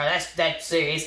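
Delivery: ordinary talk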